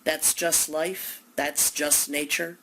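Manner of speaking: slow, dismissive shrug of a line; glib. Retold or imitated. Mocking the listener's glib reply to suffering, offhand. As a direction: brush it off as if it's nothing. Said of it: "your glib response".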